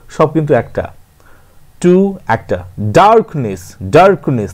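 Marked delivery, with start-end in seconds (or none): 2.8-4.5 ডার্কনেস in two even beats, dark, ness; syllable by syllable. Shown as a demonstration. Teacher showing a disyllable, ডার্কনেস broken in two. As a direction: separate both halves of ডার্কনেস. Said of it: "তাহলে এটা ডাইসিলেবল".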